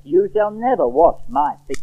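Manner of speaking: slow, weighted "never" in a refusal; deliberate emphasis on "never" and "my"; very emphatic. Acted. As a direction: spell out the refusal slowly, leaning on "never". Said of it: "very emphatic".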